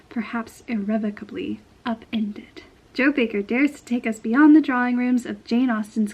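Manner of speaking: reading a book blurb aloud. Acted. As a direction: read it like a back-cover blurb.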